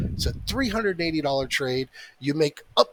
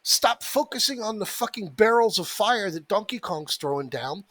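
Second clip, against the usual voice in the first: exasperated, higher-pitched rant; 5 semitones higher than usual. Real, not acted. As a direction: vent at stubborn traders. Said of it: "I apologize for the rant".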